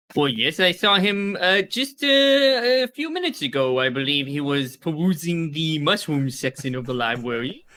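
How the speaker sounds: fumbling, stumbling delivery with drawn-out a sound. Voicing a sockless character who is looking for his socks: Fumblemore McStumblefumble voice. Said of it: "a sockless Fumblemore McStumblefumble".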